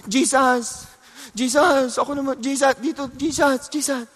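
a mother's pleading, lightly voiced, trailing off; pleading woman. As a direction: beg him over and over, dying away to near silence. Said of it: "nagmamakaawa siya kay Jesus".

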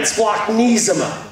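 Splachnisma said very slowly as splak-NEE-zma; slow Greek demo. Shown as a demonstration. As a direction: lead the room through Splachnisma, dragging each syllable out. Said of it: "Try it again".

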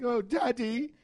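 retold child. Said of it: "And his kids are like".

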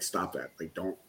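low, soft plea; retold tearful protest. Crying man refusing tissues from people, quiet retold plea. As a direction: beg them off under your breath, pitch dropped. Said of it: "unbelievably crying".

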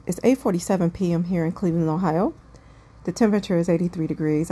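quick, even news-anchor read; newscaster voice. Real, not acted. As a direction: rattle it off like a weather report. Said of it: "I sound like a newscaster".

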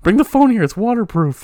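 high, loud mock call; shouting. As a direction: call out from the shower. Continuing mock shower scene.

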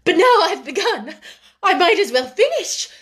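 high-pitched, pressing on with the tirade; worked-up, emphatic reproach; reckless courage. A narrator's reading. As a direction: blurt it all out boldly, come what may. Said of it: "with a kind of reckless courage".

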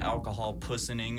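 "pussening" said like pussy-ning, not poisoning; alcohol pussening. Retold or imitated. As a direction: stretch "pussening" as a joke mispronunciation. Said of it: "is what we call it".

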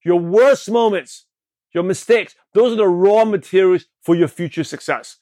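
slow, deliberate restatement; slow emphatic repeat. Shown as a demonstration. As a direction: say it slowly for emphasis. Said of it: "I'll repeat that again".

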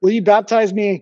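put-on drunk Scottish woman, Scottish accent; slurred Scottish accent, drunk. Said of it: "I'm gonna do my best, uh, Scottish accent".

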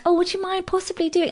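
high, soft, timid pleading; over-polite request. Acted. Performer asking the sound crew a favour, mincingly polite. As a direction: ask as if afraid to be a bother. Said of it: "I hate that".

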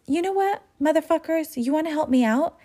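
sarcastically sweet challenge; teasing the catcallers; mock sweet sarcasm. She turns catcallers into helpers.

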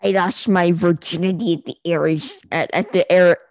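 a hint of a nerdy Discord mod; neckbeard voice. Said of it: "the most neckbeard voice I can do".

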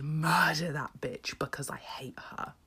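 a conspiratorial half-joking whisper; mock whisper. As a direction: whisper it like a wicked secret. Joking murder fantasy about herself.

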